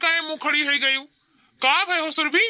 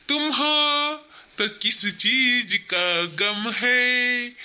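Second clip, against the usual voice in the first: low, slow, hushed sweet-talking lover; scheming lover; 5 semitones lower than usual. Acted. Lover calms the crying wife and plots against her husband, low sly coaxing. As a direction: coax her while plotting, low and sly.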